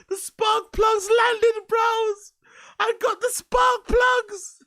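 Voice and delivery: high, slow hyped bro voice; mock car guy. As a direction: ham up a proud car guy.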